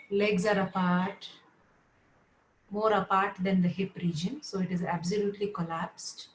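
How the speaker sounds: measured yoga nidra instructions with long pauses; guided relaxation. Real, not acted. Yoga teacher settling students lying down, guided relaxation. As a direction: guide them into rest, phrase by phrase.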